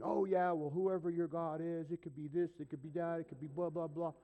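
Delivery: imitating someone rambling on; going off. Store clerk going on about whoever your God is, rambling. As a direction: run on through a list in an even singsong. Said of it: "he's going off on".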